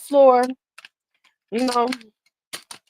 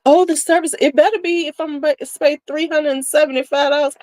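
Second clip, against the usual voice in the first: mock snooty shopper; 6 semitones higher than usual. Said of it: "They're like".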